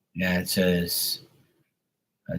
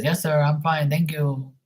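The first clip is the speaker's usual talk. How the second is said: much higher, mock Filipino voice; Filipino accent; 9 semitones higher than usual. Pool guy answering his customer, mock Filipino accent. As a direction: put on a polite, high Filipino accent. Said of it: "That's how he talks".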